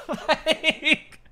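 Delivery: laughing. Real, not acted. Laughing mid-rant.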